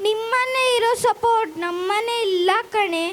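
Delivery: tearful, words breaking on a sob; crying. Acted. Daughter cries to her friend about her family, tearful. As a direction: cry through the line, voice catching. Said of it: "ಯಾಕೆ ಗಾನಿಕಾ ಅಳ್ತಾ ಇದೀಯಾ?".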